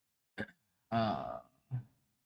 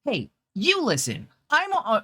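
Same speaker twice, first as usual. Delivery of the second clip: higher, girlish put-on voice, cut off; Chloe voice attempt; 11 semitones higher, 3 dB louder than usual. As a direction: start the captain line as a cute girl character. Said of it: "a Chloe voice".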